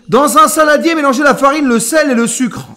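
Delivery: projected recipe announcement; recipe read-out. Real, not acted. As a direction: read the instruction out loudly. Reads recipe aloud to viewers.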